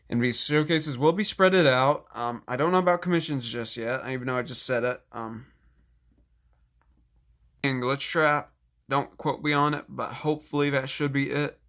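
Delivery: dry mouth, parched and flat. Real, not acted. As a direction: speak with a parched dry throat. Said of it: "I'm really parched at the moment".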